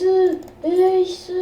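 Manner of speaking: drawn-out hype caster call; esports caster. Pretend. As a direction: stretch it like a tournament caster. Même phrase, étirée comme un caster. (commentateur esport qui étire l'annonce)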